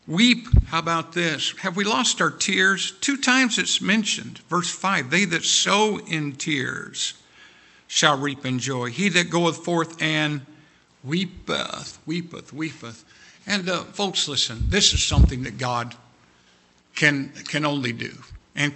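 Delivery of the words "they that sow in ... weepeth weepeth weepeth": slow scripture reading. Acted.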